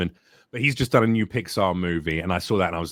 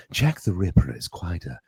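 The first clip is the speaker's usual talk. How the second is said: twisted, flamboyant English chap, slow and sinister; drawn-out, relishing menace with a crazed edge; Jack the Ripper; 3 semitones lower than usual. Shown as a demonstration. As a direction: play a dandyish, polite killer. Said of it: "can you do a little bit of each character".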